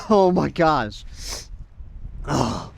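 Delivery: sputtering with sand in mouth; talking through a mouthful of grit. Real, not acted. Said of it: "So much sand in my mouth".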